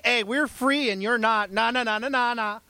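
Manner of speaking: put-on childish na-na taunt; gloating boast. Free believers boasting over slaves, mock gloating. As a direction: crow it like a playground taunt. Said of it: "tempted and gloating and boasting".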